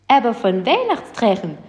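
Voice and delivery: hopeful. Acted. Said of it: "sagte Spekulatius hoffnungsvoll".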